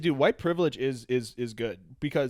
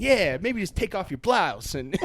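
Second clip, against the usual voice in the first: slow, slightly raised mock-smooth come-on; slam poet; 4 semitones higher, slower than usual. Man coaxing a woman before sex, slam-poet smooth. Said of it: "He's doing slam poetry".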